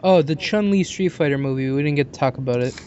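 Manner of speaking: normal talking voice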